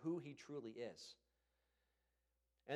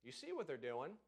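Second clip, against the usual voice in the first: calm trusting prayer; 3 semitones lower than usual. Retold or imitated. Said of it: "They said".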